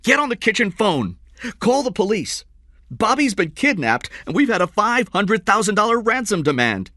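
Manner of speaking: high, loud urgent orders; shouting. A narrator's reading. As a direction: shout emergency instructions across the house. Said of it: "he shouted".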